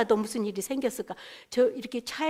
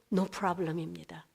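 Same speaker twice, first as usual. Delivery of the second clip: very slow reply; 5 semitones lower, 6 dB quieter, much slower than usual. Retold or imitated. Careful reply quoted.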